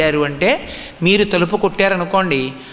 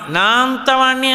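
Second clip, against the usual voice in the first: swelling boast; 5 semitones higher than usual. Retold or imitated. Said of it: "అన్నాడంటే ఏదో ఒక విభూతి".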